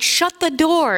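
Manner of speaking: mock-amazed exclamation after a gasp; playful disbelief. Shown as a demonstration. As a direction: react as if astonished, playfully.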